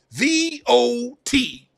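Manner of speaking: high rasp. Spelling out a word in a guessing game, in a raspy D.L. Hughley voice. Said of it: "in the D L Hughley voice with the old raspy voice".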